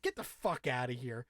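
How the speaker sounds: low, soft disbelieving mutter; scoffing aside. Retold or imitated. Podcaster scoffing at Sadie's poem, a low soft mutter. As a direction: toss it off under your breath.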